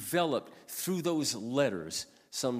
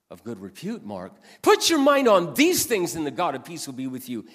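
scripture called out much higher and louder; God's voice booming; 7 semitones higher, 11 dB louder than usual. Retold or imitated. God rebuking the pastor through Philippians, booming loud. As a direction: thunder the verse as the Lord. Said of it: "He said".

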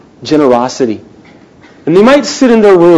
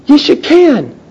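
firm rallying; 10 semitones higher, slower than usual. Real, not acted.

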